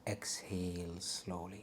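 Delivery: breathy meditation whisper; soft spa whisper. Acted. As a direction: whisper the cue to exhale.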